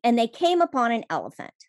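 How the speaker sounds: lively fireside storytelling, building up. A narrator's reading. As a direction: tell it like a fireside tale. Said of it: "let me put on my storytelling voice".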